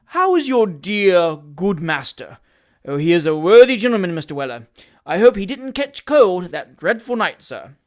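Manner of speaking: fawning hypocrite. Acted. Job Trotter gushes false feeling to Sam, fawning voice. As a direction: overdo the heartfelt emotion.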